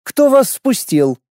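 slow, high, stern question; frowning demand. A narrator's reading. Lorana scowling at the intruders, stern and demanding. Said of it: "нахмурившись".

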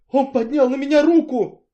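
high, loud cry of outrage; outraged shout. A narrator's reading. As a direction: cry it out, beside herself. Woman shouting about being hit.

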